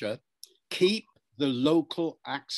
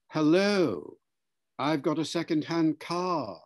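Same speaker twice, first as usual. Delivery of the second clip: careful received pronunciation sales pitch; RP accent; 2 semitones higher, slower than usual. Shown as a demonstration. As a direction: offer it in standard British RP. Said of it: "speak R P".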